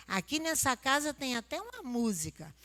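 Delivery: usual speaking voice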